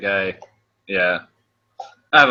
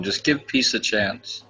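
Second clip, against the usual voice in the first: mock soothing plea; 3 dB quieter, slower than usual. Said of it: "they tell 'em".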